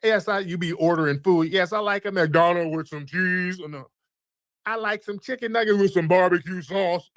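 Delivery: a hint of a high mocking impression; mocking caller voice. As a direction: send up the caller's voice at the drive-through. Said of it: "You're like".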